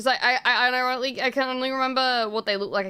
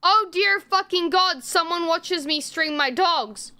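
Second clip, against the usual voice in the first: higher, mildly alarmed inner voice; retold panic; 5 semitones higher than usual. Streamer fearing a neighbor watches her streams, retold mild panic. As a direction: act out a panicked thought. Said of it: "I panicked 'cause I thought".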